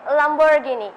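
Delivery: "Lamborghini" in a British accent, "ghini" like "gee-nee". Shown as a demonstration. Student answering interviewer's car question, British "Lamborghini". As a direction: say "Lamborghini" British-style, with a clear "ee" in "ghi". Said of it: "in British accent".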